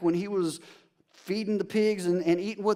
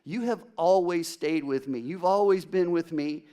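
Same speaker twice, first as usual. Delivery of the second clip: tender father. Acted. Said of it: "He says".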